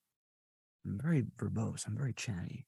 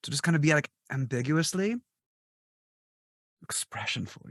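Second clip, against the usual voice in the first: high excited retold quote; 6 semitones higher than usual. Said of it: "And I was like".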